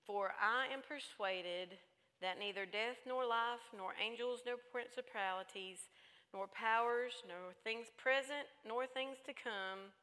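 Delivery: deliberate list with pauses between items; scripture reading. Real, not acted. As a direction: recite the verse phrase by phrase. Reads scripture aloud.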